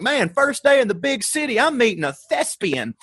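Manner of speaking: high, wide-eyed newcomer thrill; naive excitement. Retold or imitated. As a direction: marvel at meeting a real actor, slowing on the last words. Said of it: "in my mind, I'm still like".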